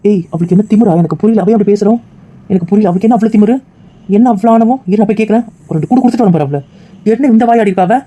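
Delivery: furious on his friend's behalf; outraged friend. Acted.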